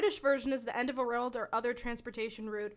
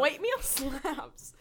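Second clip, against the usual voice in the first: laughing; 3 semitones higher, much slower than usual. Real, not acted. Laughing while declaring love of food.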